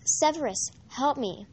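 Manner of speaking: a terrified captive calling out; cracked, terrified. Acted. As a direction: beg for help in terror. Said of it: "said in a cracked and terrified voice".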